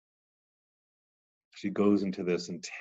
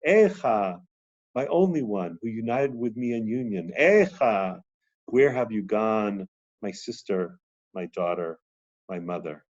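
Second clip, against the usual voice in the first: mournful lament reading. Acted. Teacher reading the Zohar aloud to the class, mournful lament. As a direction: read it as a grieving lover's cry.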